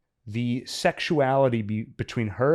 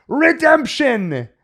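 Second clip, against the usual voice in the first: high, loud, very slow hammed-up cry; mad proclamation; 14 semitones higher, 9 dB louder, much slower than usual. Von Franz turning to the fires, crying out high and slow. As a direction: proclaim it to the flames like a madman. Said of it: "he turns to the fires".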